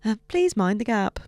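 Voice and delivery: lightly British underground announcement; mock Cockney announcer. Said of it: "That felt a little Cockney to me".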